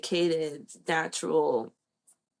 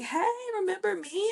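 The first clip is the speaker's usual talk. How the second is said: light imitation of a cheerful nurse, much higher and fast; imitating the nurse; 13 semitones higher, faster than usual. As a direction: chirp it like a friendly nurse spotting you. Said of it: "she ran up to me and she was like".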